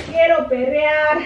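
P=A; playful tease. Pretend. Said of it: "No se crean".

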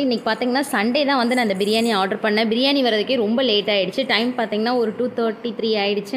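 talking with mouth full; speaking between bites; chewing food while talking. Real, not acted. Seen 0: Eats throughout, cheeks working, bites egg held at mouth 4.8-5.9.

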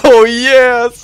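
laughing, shouted disbelief; shocked laughter. Real, not acted. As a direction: blurt it out through a laugh. Sudden comeback win.

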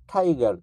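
টাইগার with a ঠ-like aspirated t; টাইগার, British aspirated ঠ. Shown as a demonstration. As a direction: say টাইগার as ঠাইগার. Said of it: "ঠ এর মতো".

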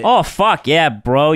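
lightly attempted Canadian accent. Podcaster impersonating a nice Canadian bro, botched Canadian accent. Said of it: "that was your Canadian?".

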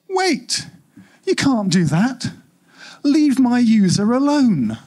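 desperate to protect its user; alarmed protest. Acted. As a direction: panic as control slips away. Hub protests being overwritten.

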